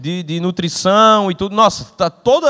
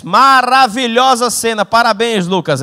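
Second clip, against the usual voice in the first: impressed director; 5 semitones higher, 3 dB louder, slower than usual. Retold or imitated. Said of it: "Aí o diretor fez".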